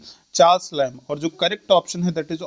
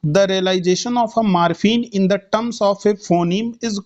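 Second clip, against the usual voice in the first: slow dictation read; much slower than usual. Shown as a demonstration. Teacher reads question slowly.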